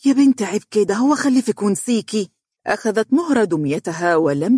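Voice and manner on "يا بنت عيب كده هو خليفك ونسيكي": mother's raised rebuke; mother scolding her daughter on the balcony. A narrator's reading. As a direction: tell the girl off, louder. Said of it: "نهرتها والدتها".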